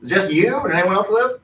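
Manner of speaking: put-on high creaky old man voice; a frail old man, surprised. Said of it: "He's like".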